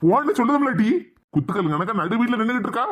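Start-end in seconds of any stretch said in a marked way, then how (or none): 0.0-0.9 angry order. Acted. Uncle ordering his sister out.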